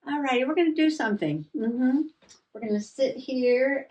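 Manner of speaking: perky restart. Real, not acted.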